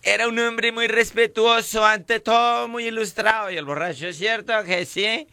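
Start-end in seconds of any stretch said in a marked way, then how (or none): 0.0-3.5 mourning widow. Retold or imitated. Widow praising her dead husband at the funeral, mock lament. 4.1-5.3 high, slow plea for agreement; mock widow pleading. Widow begging the drunk to agree, mock lament.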